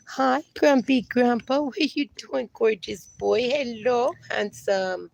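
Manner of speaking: tender dog-mom greeting. Real, not acted. Cooing softly to her dogs.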